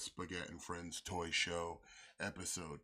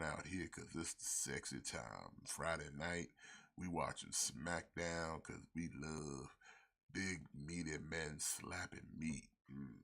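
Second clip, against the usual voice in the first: sexy voice; 3 semitones lower than usual. Pretend. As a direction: lay on the sultry charm. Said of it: "talking in a sexy voice".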